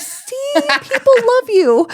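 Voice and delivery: very high, drawn-out cooing; mock reassurance. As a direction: coax a weepy patient, retold playfully. Reassuring the weepy patient.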